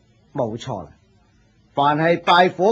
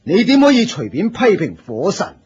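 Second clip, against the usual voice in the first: stern scolding; 3 semitones higher than usual. Acted. Senior disciple scolds newcomer.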